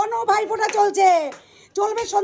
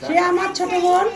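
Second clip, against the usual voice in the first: hoarse voice; 2 semitones lower than usual. Real, not acted. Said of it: "আমার গলা ভেঙে গেছে".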